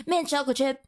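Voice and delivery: "Mint chocolate chip" in one quick go; quick and easy. Shown as a demonstration. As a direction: toss off "Mint chocolate chip" without gaps. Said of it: "you said that so freaking quickly".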